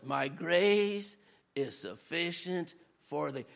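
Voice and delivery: low, soft, hushed answer; whisper-close reassurance from above; low, hushed voice of God's reassurance; gentle divine reply. Retold or imitated. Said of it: "in the perils in the wilderness".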